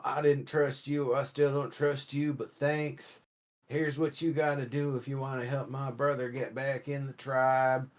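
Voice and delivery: a hint of a southern accent, grudging thanks. Minotaur thanking the player, in a light southern accent. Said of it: "I don't know why I have a southern accent like that".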